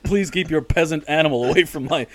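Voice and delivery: mock-haughty, barely holding back a laugh; pompous snob. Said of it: "trying to sound like a pompous asshole".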